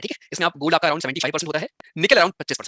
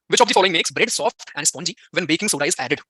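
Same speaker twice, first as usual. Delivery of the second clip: slow question read; much slower than usual. Shown as a demonstration. Rereads same quiz question.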